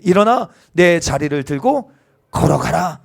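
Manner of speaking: slow, firm command; Jesus commanding. Acted. Pastor voicing Jesus's command, slow and firm. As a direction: speak it as a command. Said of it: "예수께서 이르시되".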